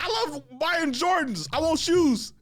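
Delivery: very high, slow, laughing whine; whiny want. Retold or imitated. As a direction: whine for your sneakers. Inner voice choosing shoes.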